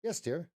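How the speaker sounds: "Yes, dear" pitched high; high inflection. Shown as a demonstration. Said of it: "different inflections in the tone".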